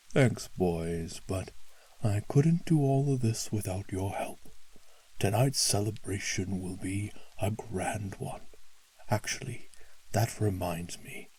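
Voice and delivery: jolly booming Santa; hearty old Santa. Acted. Santa thanks elves.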